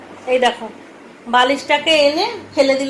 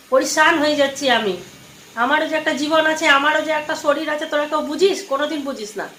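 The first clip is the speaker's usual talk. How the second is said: rising, higher pitched frustrated lament; exasperated complaint; 5 semitones higher than usual. Real, not acted. Worn-out mother complains to her sons, exasperated. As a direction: pour out how fed up you are. Mother venting about caring for family.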